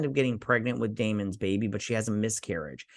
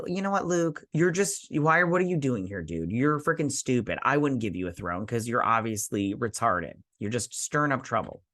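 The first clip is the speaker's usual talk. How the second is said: hammed-up angry telling-off; mock angry rant. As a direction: tell off the troublemaker, half-playing. Own retold rant at Luke.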